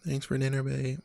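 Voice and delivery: soft mimic of partner saying thanks; a lightly voiced take-off of her; imitating partner. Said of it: "That's how you say stuff".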